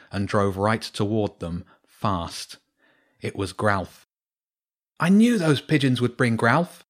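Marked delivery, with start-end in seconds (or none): 5.0-6.8 calling out over the engine; boy shouting over the car engine noise; shouted. A narrator's reading. Shouted over engine. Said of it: "James shouted above the noise".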